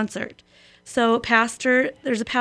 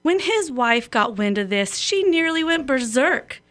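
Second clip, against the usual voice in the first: measured, rhythmic recitation of a cowboy poem; lightly performed cowboy verse; poem reading. A narrator's reading. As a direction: read it like a folksy poem on the radio. Reads a cowboy poem aloud.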